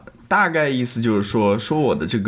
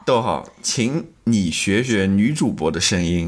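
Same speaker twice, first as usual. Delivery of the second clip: reading mean tweet; slower than usual. Pretend. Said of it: "像Jimmy Kimmel一样念那种mean tweet".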